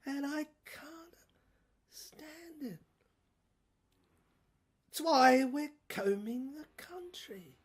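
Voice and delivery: breathy unvoiced whisper of rage; whispered menace from the ranting boss; villain whispering. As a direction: drop to a fierce whisper mid-rant. Villain drops to hiss.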